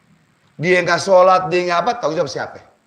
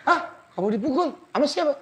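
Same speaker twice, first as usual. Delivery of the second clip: shocked teacher; 10 semitones higher, 5 dB quieter than usual. Acted. Teacher reacts to wife's report.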